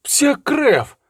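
high, sharp oath; curse. A narrator's reading. Tybald curses as he spurs his horse, a high sharp oath. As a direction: spit out the curse while spurring on.

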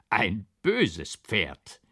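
slow, dazed echo; repeating dazed. A narrator's reading. Rider repeats the judge, slow and dazed. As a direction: echo it slowly, baffled. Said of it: "wiederholte ich".

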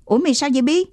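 put-on boy alarmed when his friend cries out; worried question. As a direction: ask quickly, worried. Boy asks injured friend.

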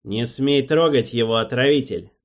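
cold, loud command; icy voice. Acted. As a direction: freeze him with the order. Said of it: "ледяной голос сказал".

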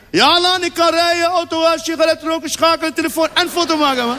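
put-on Turks accent. Driver boasts, higher.

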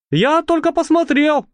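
mildly sheepish lad; embarrassed. Acted. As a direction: mumble it like a caught-out kid. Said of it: "засмущался Болт".

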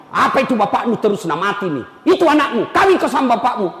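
a wife ranting against her father-in-law; mock angry wife. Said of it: "Langsung datang istrinya".

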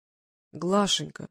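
slowly drawn-out, mildly plaintive; understated plaintive appeal. A narrator's reading. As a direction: plead a little, drawing the name out. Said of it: "жалобно сказал он".

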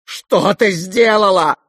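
high, loud, slow cry; furious cry. A narrator's reading. Ganya seizing his sister's arm, furious. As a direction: shout at her in rage. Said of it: "вскричал он".

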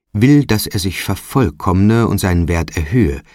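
lightly voiced phantom, emphatic proclamation; solemn bell phantom. Bell phantom lectures Trotty on Time, solemn and emphatic. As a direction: declaim it with weight, like a stern spirit.

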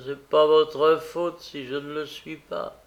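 acted embittered jibe; bitterness. A narrator's reading. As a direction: needle them bitterly, pitch lifting. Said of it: "Dit-elle avec amertume".

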